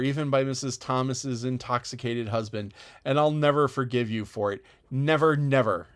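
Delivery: loud, relentless indignation; girl raging at her insulter; furious tirade. Acted. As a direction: refuse to back down an inch. Anne's furious tirade continues.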